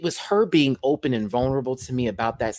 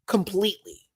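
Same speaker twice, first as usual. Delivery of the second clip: Completely said higher, full voice; high emphatic; 9 semitones higher than usual. Real, not acted.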